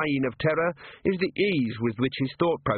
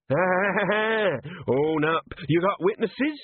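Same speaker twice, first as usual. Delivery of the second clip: slow, much higher bellowing troll; troll shouting; 8 semitones higher, much slower than usual. Acted. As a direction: shout it at the lined-up staff. Troll interrogating.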